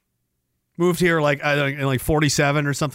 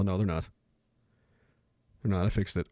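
normal talking voice

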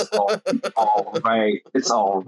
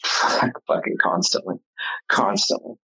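laughing; slower than usual. Real, not acted. Laughing at endless comments.

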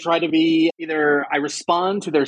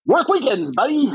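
mock smug advice; 9 semitones higher than usual. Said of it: "this one is also great".

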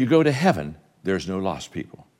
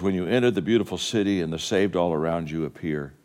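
reciting a poem; 4 semitones lower than usual. Acted. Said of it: "poem that says".

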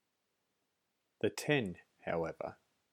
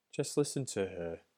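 mocking. A narrator's reading. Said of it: "said the old bee mockingly".

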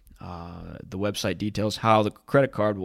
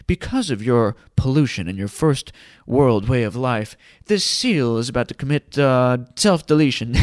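mock British nature narrator, grave and louder; British documentary narrator; 2 semitones higher, 5 dB louder than usual. Mocking nature documentaries, British narrator voice. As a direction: parody a solemn British wildlife documentary voice. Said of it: "in that exquisite British voice".

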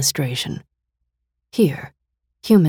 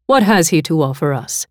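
cool mistress; 2 semitones higher, 6 dB louder than usual. Acted. Mistress character voice.

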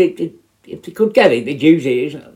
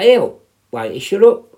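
mock rebuke, higher and louder at the end; retold telling-off; 5 semitones higher, 4 dB louder than usual. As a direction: voice jumping up on "shut up". Retold telling-off of shouting inmate.

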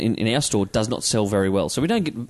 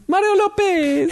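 much higher, slow exclaimed name; excited recall; slower than usual. Real, not acted. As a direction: blurt the name out high and drawn out. Co-host recalls the host's name.

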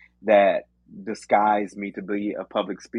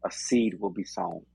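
steady earnest prayer voice. Acted. Closing prayer.

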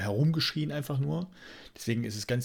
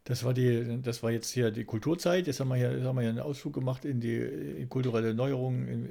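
mock news anchor; 3 dB quieter than usual. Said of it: "bei mir in der Stimme ausgedrückte Berichterstattung".

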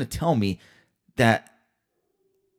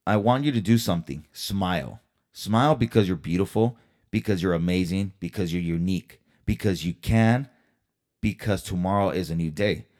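tender send-off to cheer the viewers up; kind words; 3 semitones lower than usual. Real, not acted. Signing off the vlog to viewers, gently reassuring. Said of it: "leave you with these kind words".

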